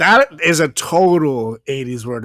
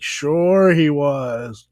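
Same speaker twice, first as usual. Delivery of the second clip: sarcastic; much slower than usual. Retold or imitated. Sarcastic reply, slow.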